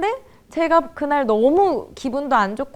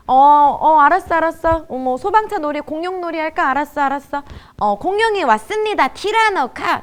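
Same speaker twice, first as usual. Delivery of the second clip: raised-pitch, hurried play voice; half-attentive playing parent; 5 semitones higher, 5 dB louder than usual. Parent agreeing to play dinosaurs with child, perfunctory enthusiasm. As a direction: play along hastily, voice lifted. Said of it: "놀아줄 때".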